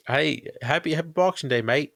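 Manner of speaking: high, cheery mock Canadian accent; hammed-up Canadian greeting. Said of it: "Canadian accent".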